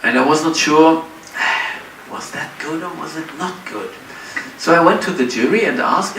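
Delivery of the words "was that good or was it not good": much softer, doubtful aside; hushed, uncertain question to oneself; unsure. Retold or imitated. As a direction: drop the volume as if wondering privately. Retold self-doubt after the contest.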